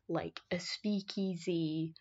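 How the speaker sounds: hushed secretive whisper. Real, not acted. Secret hidden bar.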